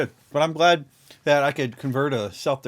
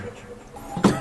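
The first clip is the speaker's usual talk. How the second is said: evil chuckle. Acted. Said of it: "a good villain laugh".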